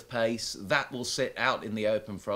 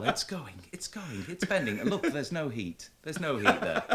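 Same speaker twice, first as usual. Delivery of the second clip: playful mock Israeli accent, pitched higher; hammed-up Israeli accent, mystic showman; 5 semitones higher than usual. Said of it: "the Israeli accent as well".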